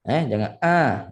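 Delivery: A made nasal with a glottal catch; wrong "A" with a nasal glottal stop. Shown as a demonstration. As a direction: show the wrong way to say "A", nasal and clipped. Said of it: "jangan hamzah tambah sengau".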